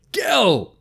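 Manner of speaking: high call from a distance. Acted. Nutmeg calling down the hill to Gel, high distant shout. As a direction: shout his name down the hill.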